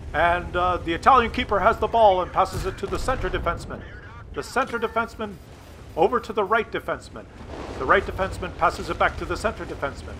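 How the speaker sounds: dry, fast commentary on endless back passes; mock play-by-play. Mocking soccer broadcast, dry running commentary. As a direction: narrate the passing like a bored announcer.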